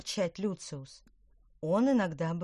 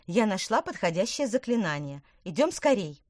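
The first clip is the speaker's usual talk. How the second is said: urgent; 3 semitones higher, 6 dB louder than usual. Acted. Witch urging friend.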